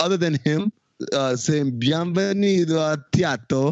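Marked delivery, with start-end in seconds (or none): 1.8-3.7 put-on absurd, ridiculous, overdone over-the-top Italian accent. Quoting a character's greeting from a TV episode, ridiculous Italian accent. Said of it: "With this ridiculous Italian accent".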